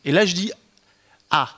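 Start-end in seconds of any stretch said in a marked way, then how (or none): 1.3-1.5 a short startled cry like the Brognard meme; meme shout. Retold or imitated. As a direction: blurt out a meme-style ah. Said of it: "Un peu comme le mème de Denis Brognard". (cri bref façon mème)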